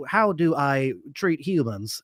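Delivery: mechanical robot voice, even and stiff. Retold or imitated. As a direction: speak like a cold machine. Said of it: "I like your robot voice too".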